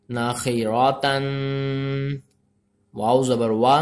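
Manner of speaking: measured, syllable-by-syllable recitation; spelling-drill recitation. Shown as a demonstration. Teacher spells out Arabic letters for learners, measured recitation. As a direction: recite letter by letter, holding the final sounds.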